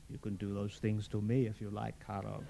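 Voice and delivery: soft seductive whisper. Acted. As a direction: breathe it into his ear. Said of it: "Fulvia whispered into his ear".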